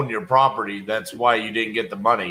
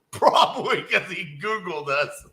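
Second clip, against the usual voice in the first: a laugh breaks into the words; chuckling at the irony; 5 semitones higher than usual. Real, not acted. To the audience about the Google irony, laughing.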